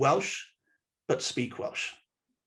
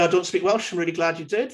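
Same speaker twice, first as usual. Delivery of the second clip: friendly; 3 semitones higher than usual. Shown as a demonstration. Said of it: "So the first one there".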